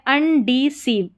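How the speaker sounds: अनडिसीव slowly split as un, dee, seev; slow, in parts. Shown as a demonstration. Teacher builds the word for learners, slow and split. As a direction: sound out अनडिसीव chunk by chunk.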